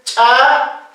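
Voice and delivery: "cha" with a plain unaspirated ch; simple consonant. Shown as a demonstration. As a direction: say "cha" without puff or pop. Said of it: "Consonantes simples". (consonante simple, "cha" sin soplo)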